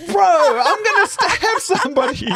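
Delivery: mock exasperation. Her exasperated reaction retold.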